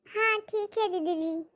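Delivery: the maid obediently says yes; high, slow, compliant maid; meek maid. Acted. Maid agrees.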